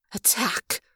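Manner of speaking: soft, quiet order; the woman quietly ordering the attack, almost a whisper; near whisper. Acted. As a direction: breathe the order almost silently. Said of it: "Her voice was nearly a whisper".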